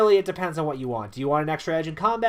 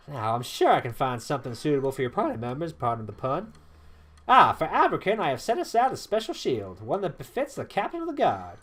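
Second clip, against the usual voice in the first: lively, lilting character voice; genial weapon master. Acted. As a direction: present the gear with ceremony. Voices Traherne handing out gear.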